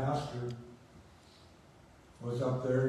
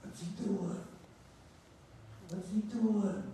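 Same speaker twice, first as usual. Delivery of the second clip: indignant disbelief; 8 semitones higher than usual. Retold or imitated. Inner outrage at pastor.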